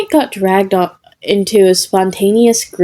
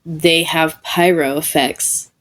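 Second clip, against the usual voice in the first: awestruck; 3 semitones lower, 4 dB quieter than usual. Acted.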